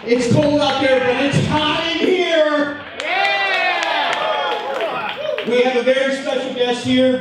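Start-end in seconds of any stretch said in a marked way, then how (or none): 0.0-4.1 hyping the crowd. Real, not acted.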